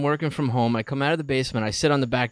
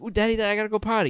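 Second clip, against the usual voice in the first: put-on child voice; 7 semitones higher, much faster than usual. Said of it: "he'll go a little bit and be like".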